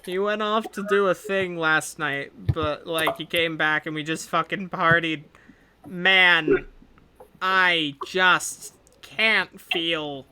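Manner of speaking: groggy hungover rambling. Acted. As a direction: drag through it like a bad hangover. Deb rambles about her hangover.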